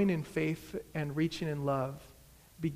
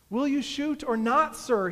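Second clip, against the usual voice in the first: high, loud demand; yelling; 7 semitones higher, 6 dB louder than usual. A narrator's reading. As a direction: yell the question as a challenge. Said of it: "he yells at me".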